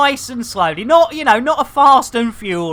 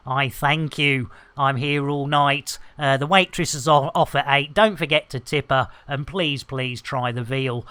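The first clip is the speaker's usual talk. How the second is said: low, quiet comedy-club sign-off; deadpan end-of-act patter, lower and softer; mock lounge comedian; 8 semitones lower, 7 dB quieter than usual.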